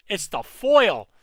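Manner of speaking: slow, loud drawn-out exclamation. Real, not acted. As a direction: stretch it out loudly in awe. Repeats in drawn-out shout.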